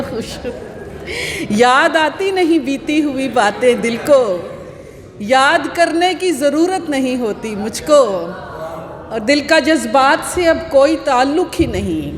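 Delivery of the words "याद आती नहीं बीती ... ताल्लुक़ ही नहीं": slow, measured mushaira delivery; Urdu poetry recital. Acted. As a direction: declaim each half-line, then let it hang. Recites her ghazal.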